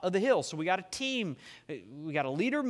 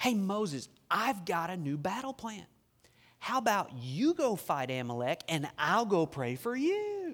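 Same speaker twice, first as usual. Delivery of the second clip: mock sarcasm, slow and heavy, dripping. Speaker acting out an imagined reply, in a put-on sarcastic tone. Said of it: "what I would have said in a very sarcastic tone".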